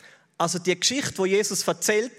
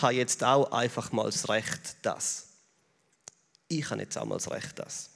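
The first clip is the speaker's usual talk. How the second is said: petulant mutter fading to a whisper; fading mock grumble; 7 semitones lower, 6 dB quieter than usual. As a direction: quote the grievance much softer and lower, fading to a whisper. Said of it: "Es gibt so die Frustmantras".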